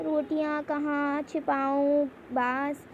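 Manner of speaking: रोटियां कहाँ छिपाऊं, बांस said slowly with vowels through nose and mouth; anunasik pronunciation. Shown as a demonstration. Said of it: "उच्चारण नाक व मुंह दोनों से". (रोटियां, कहाँ, छिपाऊं, बांस का धीमा अनुनासिक उच्चारण)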